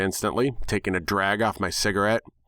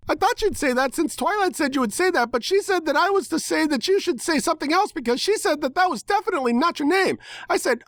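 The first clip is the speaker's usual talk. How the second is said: put-on much higher rapid-fire pony girl babble; high bubbly pony voice. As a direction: ramble on like a hyper cartoon pony. Pinkie Pie rambling in character.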